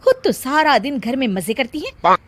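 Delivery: complaining daughter-in-law. Acted.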